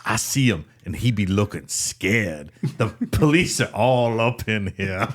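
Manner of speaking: slow, drawn-out imitation Jamaican accent. Prank caller describing the scene to the anchor, Jamaican accent. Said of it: "in this Jamaican accent".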